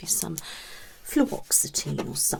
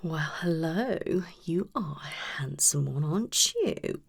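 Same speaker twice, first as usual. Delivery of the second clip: flirtatious. Acted. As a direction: purr it at a handsome new patient. Flirty greeting to new patient.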